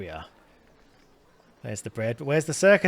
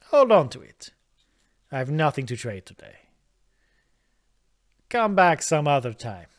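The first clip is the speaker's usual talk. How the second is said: a light Italian shopkeeper voice, louder; Italian accent; 4 dB louder than usual. Acted. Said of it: "made him Italian".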